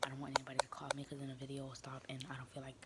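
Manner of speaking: rushed, hurried delivery; talking fast. Real, not acted. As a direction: rattle it off quickly. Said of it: "I'm talking so fast".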